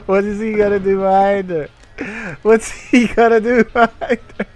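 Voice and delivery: from loud to very high and loud; escalating shocked question; building disbelief. Real, not acted. Streamer repeating in mounting disbelief.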